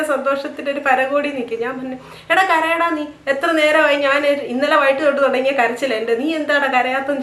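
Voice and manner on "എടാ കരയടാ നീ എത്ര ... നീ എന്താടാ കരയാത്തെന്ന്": mock scolding. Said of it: "ഇങ്ങനെ ദേഷ്യപ്പെട്ടു".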